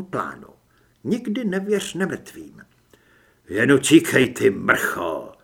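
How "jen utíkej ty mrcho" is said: loud, bitter yell; loud cursing; angry shout. Acted. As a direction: shout it after someone running away. Cursing after fleeing vampire.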